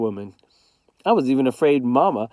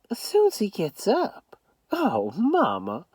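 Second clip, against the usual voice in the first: dismayed, slowing to a sigh; upset and disappointed; 8 semitones higher, 4 dB quieter than usual. A narrator's reading. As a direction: let the letdown show. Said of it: "real upset and disappointed in Southern".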